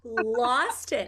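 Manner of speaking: high, shaky laugh-cry; half laughing, half crying; laughing through tears. Real, not acted. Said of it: "I started crying".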